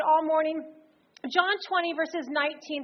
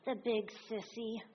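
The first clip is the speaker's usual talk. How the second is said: put-on shaky child; 4 semitones lower, 10 dB quieter than usual. A narrator's reading. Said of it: "broken by a shaky voice saying".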